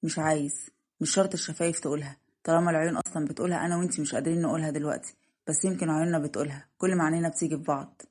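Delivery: lightly voiced tender lover, kept low; devoted suitor. Narrator voices Yamen. (عاشق حنون بصوت منخفض)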